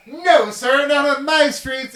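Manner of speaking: high, loud, slow heroic hero voice; a hammed-up superhero laying down the law; mock superhero. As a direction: ham up a righteous caped crusader. Mocking superhero confronting a dealer.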